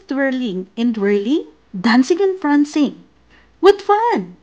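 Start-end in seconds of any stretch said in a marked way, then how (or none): 3.6-4.4 giggling. A narrator's reading. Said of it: "giggled Smiley Shark".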